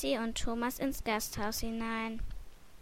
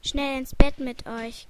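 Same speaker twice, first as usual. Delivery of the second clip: louder, mildly called order; calling out; 8 dB louder than usual. A narrator's reading. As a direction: call it out to hurry them along. (laut gerufen)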